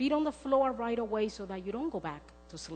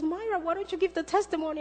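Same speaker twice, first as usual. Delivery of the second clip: friend's question; 9 semitones higher, 5 dB louder, faster than usual. Retold or imitated. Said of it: "she goes".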